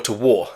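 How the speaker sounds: "war" said alone after a pause, as one syllable; war, set apart. Shown as a demonstration. Teacher finishing the contrast the accent blurs, separated war. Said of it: "hard for me to distinguish".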